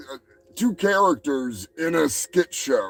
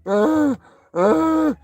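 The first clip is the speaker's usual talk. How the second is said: slow put-on English voice; mock Arthur; 2 semitones higher, 3 dB louder, slower than usual. Vlogger mocks Arthur naming himself to the judge, slow put-on English voice. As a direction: draw out the fake name grandly. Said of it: "And he's like".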